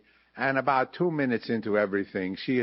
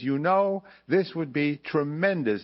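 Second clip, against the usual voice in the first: enthusiastic; 5 semitones higher than usual. Retold or imitated. Casting director suddenly enthusiastic.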